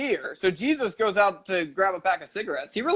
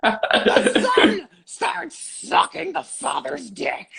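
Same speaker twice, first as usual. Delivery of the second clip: slow, high delivery through laughter; real helpless laughter in the words; laughing; 7 semitones higher, much slower than usual. Real, not acted. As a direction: squeeze the punchline out while cracking up. Crude punchline amid shared laughter.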